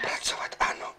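hushed whispered reply; whispering. Acted. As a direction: whisper the answer. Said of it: "Tak proč vlastně šeptáme?".

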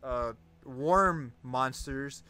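PA announcement. Acted. Reads in-game announcements.

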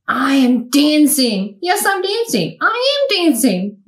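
a touch of joyful calling out; mildly excited exclamation; joyful cry. Acted. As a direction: let the delight ring out lightly. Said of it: "Gerald cried".

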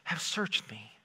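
hushed, slow, sing-song prayer whisper; mock church voice. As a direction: parody a pious churchgoer reading the psalm. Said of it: "sing-songy voice ... prayer whisper".

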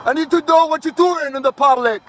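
calling out. Real, not acted. Yelling up at a pole worker.

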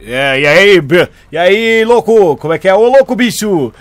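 loud, booming TV host catchphrase; Faustão impression. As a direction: boom it like a Sunday TV host. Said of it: "o Domingão do Abelão".

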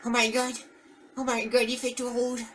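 high, squeaky cry of alarm; mock alarm. Player reacting to everything turning red, mock alarm.

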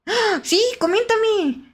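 high, eager and drawn out; gasp, then urge them on brightly; excited gasp. Real, not acted. Streamer hearing about a collab, excited eagerness.

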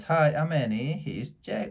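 bright call to the octopus; yelling. Acted. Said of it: "She yelled to the octopus".

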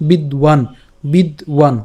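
বিদ্বান with the ব sounded as w; bid-wan pronunciation. Shown as a demonstration. Teacher showing how antastha ba sounds, careful বিদ্বান. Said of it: "উচ্চারণটা হবে".

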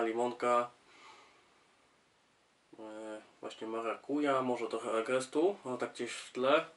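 bottle held under nose; speaking beside bottle neck; talking while sniffing bottle. Real, not acted.

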